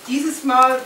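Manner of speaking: measured literary reading aloud; lifted phrase openings, falling sentence ends; story narration. A narrator's reading. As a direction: read the novel to an audience, phrase by phrase. Reads aloud from the book.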